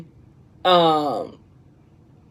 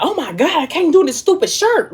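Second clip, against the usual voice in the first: put-on much higher, whining teen boy; whiny kid; 11 semitones higher than usual. Son bursting into the room, a high whiny complaint. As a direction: burst in whining about a shirt.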